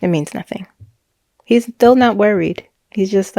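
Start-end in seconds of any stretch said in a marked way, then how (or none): 0.0-0.7 curt. Retold or imitated. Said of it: "he said it very curtly".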